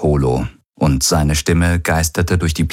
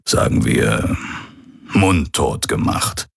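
put-on old pirate's recorded message. Hologram of the old pirate addressing his son, lightly voiced. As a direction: speak as the aging pirate father leaving a last message.

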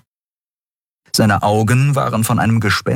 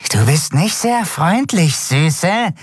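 high, creepy reproach from the wretch; hissing; 10 semitones higher, slower than usual. A narrator's reading. Rejected dealer turns on Andriel, high hiss. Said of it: "zischte es".

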